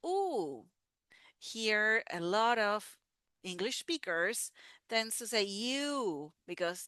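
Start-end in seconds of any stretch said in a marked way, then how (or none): 0.0-0.7 whispered oo. Shown as a demonstration. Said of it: "And then we have".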